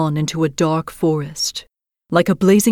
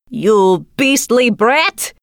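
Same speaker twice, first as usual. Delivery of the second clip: exclaimed; 5 semitones higher, much slower than usual. Acted. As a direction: spit it out at the brat. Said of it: "her mother exclaimed".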